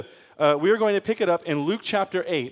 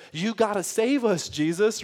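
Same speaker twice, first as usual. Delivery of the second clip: slower, higher pleading; mild urgency; 4 semitones higher than usual. Acted. Fearful disciples begging Jesus for rescue, with mild urgency. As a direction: lightly act out an urgent plea. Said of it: "this urgency, this sense of".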